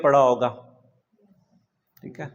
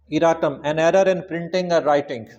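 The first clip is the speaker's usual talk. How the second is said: slow dictation; much slower than usual. Shown as a demonstration. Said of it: "slow dictation".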